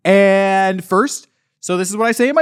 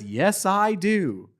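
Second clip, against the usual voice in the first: weary worker; 2 semitones lower, 6 dB quieter, much slower than usual. Acted. Vince voiced, slow, low.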